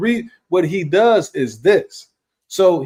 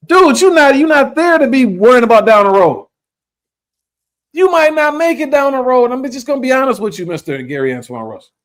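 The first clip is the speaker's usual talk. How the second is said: high, loud scolding; heated lecture; 10 semitones higher, 3 dB louder than usual. Real, not acted. Host scolding a boxer on camera, high loud lecture.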